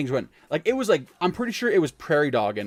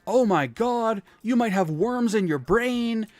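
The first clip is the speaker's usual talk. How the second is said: high, alarmed mom voice; panicky mom; 9 semitones higher, 3 dB louder, slower than usual. Retold or imitated. Mom to her bleeding son, high mock panic. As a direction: gasp it out like a mother in a panic. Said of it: "she immediately is like".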